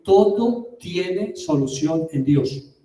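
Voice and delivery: slow, weighty, word by word; slow emphasis. Acted. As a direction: lean on every word to drive it home. Preacher slows for key message.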